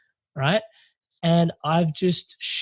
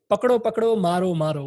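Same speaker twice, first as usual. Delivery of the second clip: retold yell; 3 semitones higher than usual. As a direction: call it out like a man yelling down the street. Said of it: "and literally yells".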